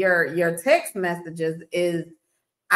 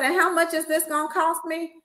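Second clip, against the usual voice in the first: incredulous; 8 semitones higher than usual. Retold or imitated. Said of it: "I said".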